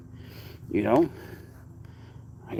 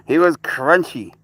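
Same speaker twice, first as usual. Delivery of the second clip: pet talk; 5 semitones higher, 5 dB louder, slower than usual. Real, not acted. Teasing pet about bug.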